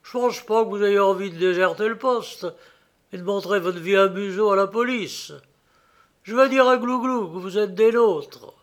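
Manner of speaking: lightly voiced rough shipmate; sailor's voice. Garbeau speaks to Gréville.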